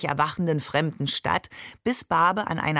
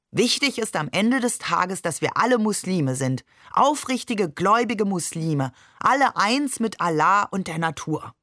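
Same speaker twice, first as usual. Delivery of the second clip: mildly declaimed mock sermon; deliberately loud proclamation. A narrator's reading. Babe mimics earnest archaeologist for his brothers, deliberately loud proclamation. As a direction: proclaim it like a pretend serious scholar. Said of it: "und sagte absichtlich laut".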